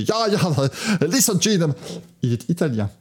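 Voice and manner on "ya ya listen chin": put-on light German-accented ya and listen; quick, lightly done Steiner voice; Gunther Steiner impression. Host briefly imitating Gunther Steiner's accented English. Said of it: "le monsieur qui fait".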